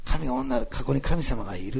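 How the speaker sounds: lightly imitated Nagasaki dialect. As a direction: quote her in Nagasaki dialect. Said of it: "彼女、長崎弁で言うんですよね". (長崎弁を軽く真似て)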